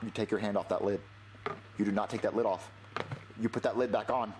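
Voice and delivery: low stern parent voice; stern dad. Acted. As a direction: scold like a strict father. Dad scolding child with food.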